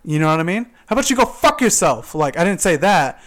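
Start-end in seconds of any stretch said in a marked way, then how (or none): 0.9-2.1 high, loud imagined comeback; angry thought. Retold or imitated. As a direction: voice the insult you only thought, pitched up. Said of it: "but I thought that".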